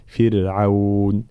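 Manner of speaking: فرعون said slowly with a light, thin ra; careful tajweed فرعون with thinned ر; light ra demonstrated. Shown as a demonstration. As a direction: draw out فرعون, keeping the ر unemphatic. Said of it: "لابد من ترقيق الراء خاصة".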